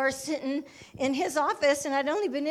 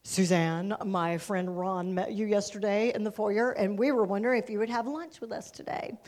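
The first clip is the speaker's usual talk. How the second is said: pastor on phone; 4 semitones lower than usual. Retold or imitated. Acts pastor's phone invitation.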